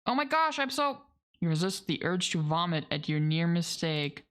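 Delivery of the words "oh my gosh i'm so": higher, horrified oh my gosh; shocked gasp. Real, not acted. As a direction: blurt it out in sudden alarm. Realises chocolate is toxic to cats.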